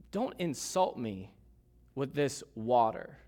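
slow, mildly bitter retort; measured, understated rebuke with pauses; a touch of wounded sarcasm, taken slowly. Retold or imitated. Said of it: "Can you sense the bitter tone".

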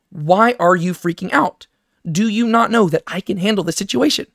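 genuinely asking. Shown as a demonstration. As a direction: ask it gently, really wanting to know. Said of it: "He is genuinely asking them".

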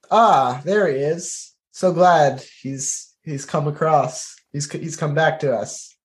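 a knight hiding a little letdown, slow in the middle; disappointed knight. Acted. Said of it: "kind of disappointed".

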